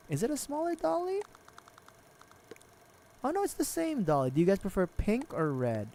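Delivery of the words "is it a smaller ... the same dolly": surprised. Real, not acted. Surprised at doll size.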